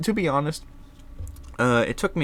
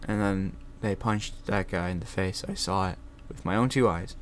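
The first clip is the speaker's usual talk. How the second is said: quiet, monotone mock testimony; dull witness; 2 semitones lower, 6 dB quieter than usual. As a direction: read it like a bored witness. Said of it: "They don't really give a whole lot of points".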